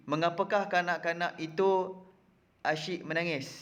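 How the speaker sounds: "Mengapakah kanak-kanak itu" lifted, then a pause before "asyik menangis"; careful question tune, "kanak-kanak itu" held up before the pause; question intonation. Shown as a demonstration. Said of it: "Baca ayat berikut dengan intonasi yang betul".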